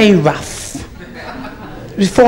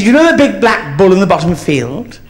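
put-on child's voice; 6 semitones higher than usual. Small boy telling his mother.

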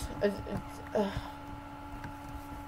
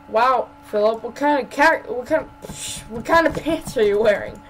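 mock admiring friend; 3 semitones higher, 4 dB louder than usual. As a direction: gush at a buddy's outfit. Acted scene admiring Philip's pants.

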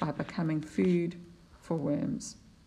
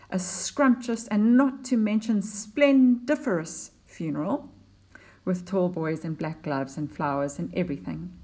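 poem reading. Acted. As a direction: savour the fancy words as you read. Teacher reads the stanza, relishing words.

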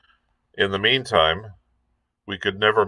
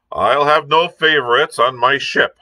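higher, louder stern declaration; quite loudly; 6 semitones higher, 4 dB louder than usual. A narrator's reading. Captain announces loudly to the doctor. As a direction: make sure the boy overhears. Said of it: "quite loudly to the doctor".

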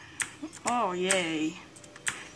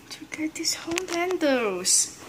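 whispered under the breath; 3 semitones higher, 9 dB quieter than usual. Real, not acted. Gamer concentrating on a tricky jump, whispering. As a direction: whisper it to yourself while focusing.

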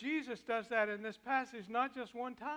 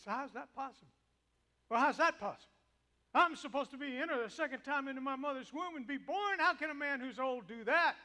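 raised, higher protest; defensive; 5 semitones higher, 5 dB louder than usual. Acted. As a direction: push back at Jesus. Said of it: "is defensive".

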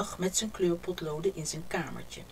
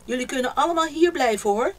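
hearty; 6 semitones higher, 8 dB louder, faster than usual. A narrator's reading. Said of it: "zei Haas hartelijk".

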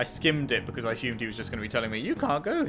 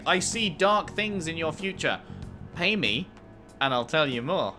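fortune teller; 3 semitones higher than usual. Retold or imitated. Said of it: "it's a classic".

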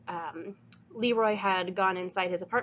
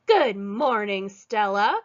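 calling out; 5 dB louder, slower than usual. Acted. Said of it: "called the woman".

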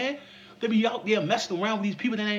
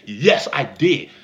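a hint of a chesty confident woman; slightly lowered boastful woman; lightly voiced bold woman; 3 semitones lower, 3 dB louder than usual. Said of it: "testosterone built in her chest when she said".

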